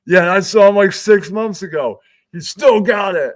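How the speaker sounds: high, loud delighted rave; excited fan. Retold or imitated. Jones raves to the producer about Tim Dillon. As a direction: geek out together. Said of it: "Jones is like".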